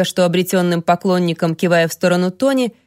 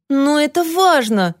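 put-on high, slow whining child; child's wail; 7 semitones higher than usual. Greyden wails to Toni for attention, high whining child. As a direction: wail it like a frustrated little boy. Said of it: "взвыл Грейден".

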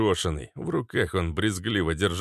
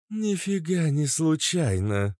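droned; 9 semitones higher, slower than usual. Acted. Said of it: "прогудела Кобра".

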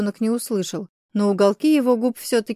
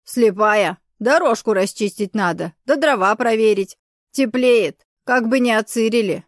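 put-on grumpy old man. Old man snapping at Kate.

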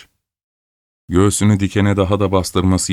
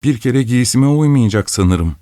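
sulky dismissal; 5 semitones higher than usual. Acted. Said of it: "kız suratını astı".

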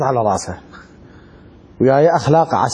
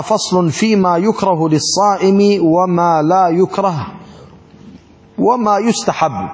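formal text reading; slower than usual. Acted. Reads the text slowly.

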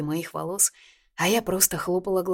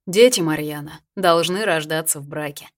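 louder, mock-instructive tone; preachy, lecturing; 6 dB louder than usual. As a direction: lay down the rule like a teacher. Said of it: "наставительно заметил Мирон". (громче, шутливо-наставительно)

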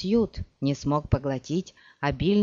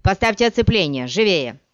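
fast, loud, higher order; raised voice; 3 semitones higher, 6 dB louder than usual. Acted. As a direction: hurry the men along. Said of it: "возвышая голос". (громкий быстрый приказ)

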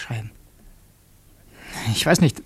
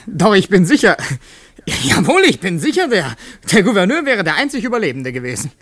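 bitter excitement; 5 semitones higher, 7 dB louder than usual. Acted. Fantasizing about the crash.

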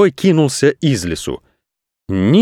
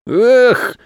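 rueful cry; 12 semitones higher than usual. Acted. Shpil shouting to Kupol while running, high cry. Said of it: "на ходу крикнул Шпиль".

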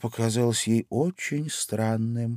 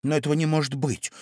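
doubtful; 7 semitones higher, faster than usual. A narrator's reading. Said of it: "с сомнением".

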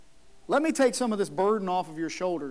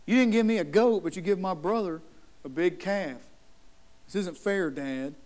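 dramatic sulking. Retold or imitated. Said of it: "This brother's being extremely dramatic".

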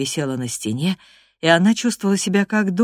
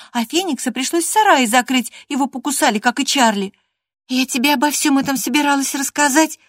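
put-on much higher, eager girlish chatter; lively young girl; 9 semitones higher, 4 dB louder than usual. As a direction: bubble over with stories to tell. Catherine answering.

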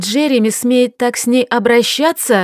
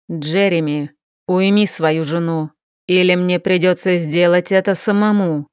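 ice in every word, a mild threat; icy tone; 2 semitones lower than usual. Acted. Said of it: "процедил он ледяным тоном". (ледяным тоном, сквозь зубы)

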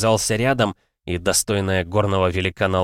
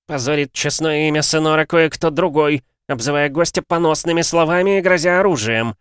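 through gritted teeth; 8 semitones higher, 5 dB louder than usual. A narrator's reading. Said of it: "процедил сквозь зубы".

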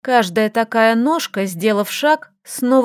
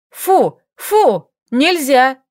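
dog-training shouts; shouting commands; 3 semitones higher, 3 dB louder, much slower than usual. A narrator's reading. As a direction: yell at them like at bad dogs. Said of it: "закричала Лилька растением".

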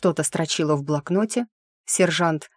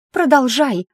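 high, loud screech; shrill shriek; 8 semitones higher, 6 dB louder than usual. A narrator's reading. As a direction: shriek the order, much higher and louder. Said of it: "взвизгнула Итрия". (громкий визгливый крик)

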